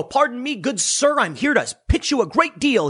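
a hint of a stuffy butler; hammed-up polite pitch to a hippie; mock posh gentleman. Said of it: "you go".

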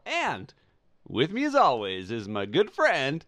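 smooth, drawn-out host intro; radio announcer voice. Acted. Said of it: "my little radio announcer voice".

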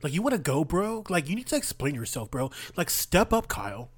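heated, pushy street challenge; confrontational. Acted. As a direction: get in his face, rising heat. Player character confronts NPC.

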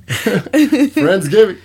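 high, slow accusing Friendsgiving; drawn-out accusation. Real, not acted. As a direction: stretch it out in mock blame.

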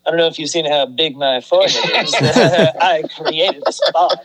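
lightly voiced gloating villain, slowing down; a hint of a smug cartoon baddie; mustache twirling villain. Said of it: "He's gotta twirl his mustache".

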